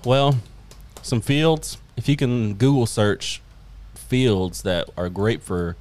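slow, drawn-out alien voice. Acted. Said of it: "I guess I can talk in my alien voice".

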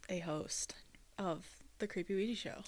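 mock creepy whisper. Whispering the show name.

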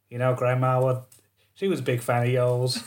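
lightly hammed-up American accent; mock American accent. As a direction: imitate a folksy American funeral guest. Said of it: "I know you don't all sound like that".

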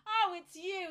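wry recognition. Retold or imitated. Pathologist recognising the returning patient, mock-weary. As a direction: sound resigned to see her again. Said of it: "he's gone".

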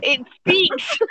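teasing, high mock echo of it speaks. Teasing echo of a quiet friend.

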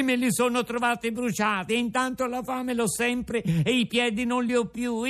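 put-on high, fast boyish puppet voice; a hungry puppet pouring out his story; puppet Pinocchio. Pinocchio telling Geppetto his hunger woes, high puppet voice.

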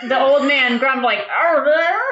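put-on old man grumbling. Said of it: "Sound effect, sound effect".

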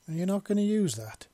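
lightly voiced curious woman; female character voice. Visa voiced, high.

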